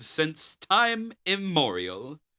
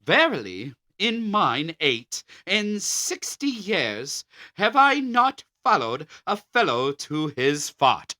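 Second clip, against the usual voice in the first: a hint of a sputtering Queen Elizabeth. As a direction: read it as a pompous Elizabethan queen. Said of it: "as did Queen Elizabeth sputtering".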